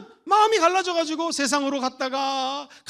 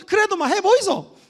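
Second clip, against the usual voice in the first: Gyeongsang dialect urging; 7 semitones higher, 7 dB louder than usual. Acted. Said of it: "경상도".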